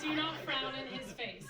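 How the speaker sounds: slow, drawn-out commandment from the vows; solemn vow reading. Acted. Bride hears her Coptic wedding vows, slow solemn reading. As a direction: read it out slowly like an archaic decree. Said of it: "what would have been read to me".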